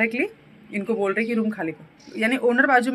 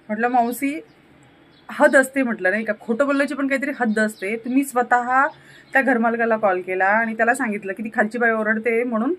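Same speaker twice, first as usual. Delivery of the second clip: louder, heated scolding in Marathi; retold confrontation; 3 dB louder than usual. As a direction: tell her off, she's crossed the line. Retells confronting the aunt. (मौसी को गुस्से में फटकारना)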